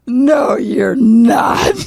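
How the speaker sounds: high, loud, near tears; disbelieving cry. Retold or imitated. Fan refusing to believe she met her idol. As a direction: gasp it out in disbelief. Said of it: "I go, I go".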